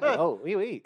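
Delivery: a clumsy fake Frenchman cooing oui; bad French accent. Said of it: "he did say it was a bad accent".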